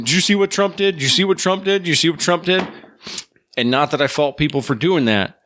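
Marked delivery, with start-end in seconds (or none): 0.1-2.7 higher, insistent repetition; mock eager, pitched up, fading slightly; imitating eager coworker. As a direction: nag like an excited fan.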